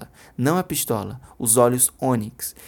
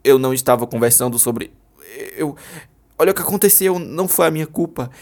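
frantic; 4 dB louder than usual. Acted. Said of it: "Ele parecia estar fora de si".

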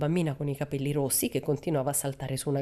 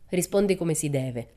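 scolding. Acted. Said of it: "la redarguì".

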